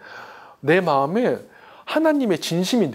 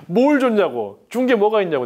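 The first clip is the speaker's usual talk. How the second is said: defiant protest; 6 semitones higher, 5 dB louder than usual. Retold or imitated. Student rebelling against God, loud and indignant. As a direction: spit out each complaint at God.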